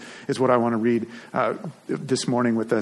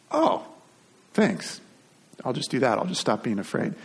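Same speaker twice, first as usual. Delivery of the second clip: sarcastic reply. Pretend. Preacher voicing the shepherds answering the angel, dry sarcasm. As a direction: roll your eyes at the order.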